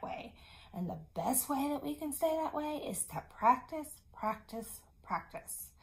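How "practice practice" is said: softer and softer until a whisper; fading repeat. Shown as a demonstration. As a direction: let each "practice" fade away. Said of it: "repetition fading".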